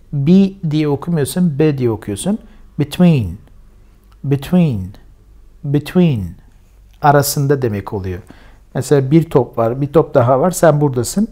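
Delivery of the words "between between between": Between with bi, stress on tween; model pronunciation. Shown as a demonstration. Teacher drills Between for students, stressing tween. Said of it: "Vurgu şuradadır".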